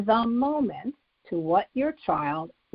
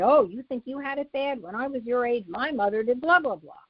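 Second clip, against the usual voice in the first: dismissive parent; 3 semitones higher than usual. Retold or imitated. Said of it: "or say".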